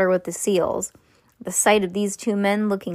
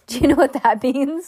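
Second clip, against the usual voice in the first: giggling, higher ask; laughing question; 6 semitones higher, 4 dB louder than usual. Real, not acted.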